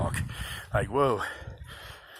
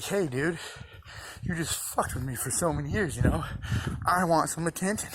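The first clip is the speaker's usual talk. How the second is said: higher, demanding voice for the brain, lightly voiced; whiny brain voice; 5 semitones higher than usual. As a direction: play your brain as a needy, nagging baby. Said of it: "that's the same thing your brain is saying".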